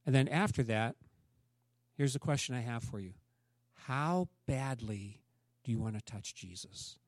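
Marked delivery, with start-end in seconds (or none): 3.7-7.0 quiet challenge. Acted. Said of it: "intimate challenge to congregation".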